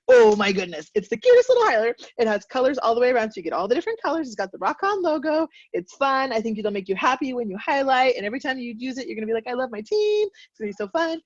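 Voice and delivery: over-the-top excited pitch for a tiny prize; gushing sales pitch. Shown as a demonstration. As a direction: sell it like the cutest prize ever. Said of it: "which one makes you want to earn a highlighter?".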